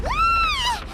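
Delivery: sudden high startled yelp; startled cry. Acted. Paimon hears a crash on the mountain, startled cry. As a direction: jump at the noise with a sharp cry.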